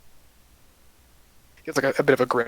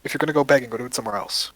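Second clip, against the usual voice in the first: stern elf. Acted. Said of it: "look at you sternly and go".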